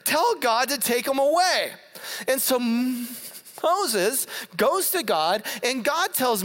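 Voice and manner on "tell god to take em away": higher, hammed-up sorry plea; mock panicky apology. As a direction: play the scared people begging. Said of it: "And then they say".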